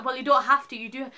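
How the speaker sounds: a hint of a curt, cold nurse; lightly imitating a brusque nurse; mock abrupt nurse. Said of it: "she was really abrupt".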